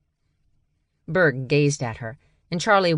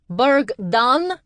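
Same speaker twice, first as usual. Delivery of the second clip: much higher, loud searching call; 9 semitones higher, 5 dB louder than usual. A narrator's reading. A stranger seeking Berg, calling out loud. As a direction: call across the crowd.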